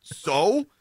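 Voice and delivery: squirm and laugh it off; sheepish laughing stall. Retold or imitated. Husband stalling and laughing at his wife's objection. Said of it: "I'm like".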